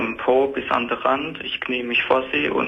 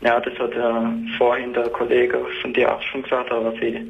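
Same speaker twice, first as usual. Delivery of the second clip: echoey tiled-room sound on the phone; calling in from the bathroom. Real, not acted. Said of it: "Ich höre, dass du im Badezimmer bist".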